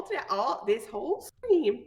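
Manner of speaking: put-on Wisconsin accent. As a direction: lay on the Wisconsin accent thick. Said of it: "I'm talking in a Wisconsin accent".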